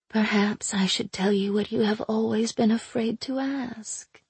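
breathy tempting whisper. Acted. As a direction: whisper it like a dark secret. Aina tempting secret.

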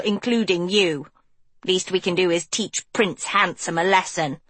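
lightly voiced scheming boy; sly sidekick, pleased; Hort's voice. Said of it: "Hort's nasal voice".

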